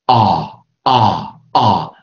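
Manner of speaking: 啊 made at the front of the mouth; separate, firm front "ah" on 啊. Shown as a demonstration. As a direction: model each 啊 as an open American front vowel. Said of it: "前R音".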